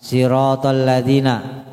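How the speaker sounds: "Siratal" said as "sirotol"; rounded ro vowel. Shown as a demonstration. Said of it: "baca siro aja".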